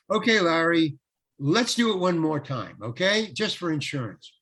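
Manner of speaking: lightly voiced director asking for a retake; director's call. Director to actor after the last line, lightly acted director's call. Director calling for another take.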